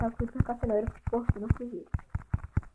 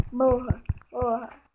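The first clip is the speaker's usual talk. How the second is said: louder battle cry; yelled attack; 5 dB louder, slower than usual. Real, not acted. Striking the spider, a loud yell. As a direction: hit it as you yell.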